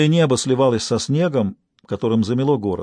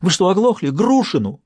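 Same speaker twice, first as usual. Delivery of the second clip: frantic exasperation; 7 semitones higher than usual. Acted. Stas snapping at the detective over the phone, frantic. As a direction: snap at him for not hearing.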